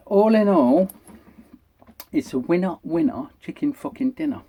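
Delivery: slightly breathless from talking fast; winded, getting out of breath. Real, not acted. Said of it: "I'm getting out of breath now".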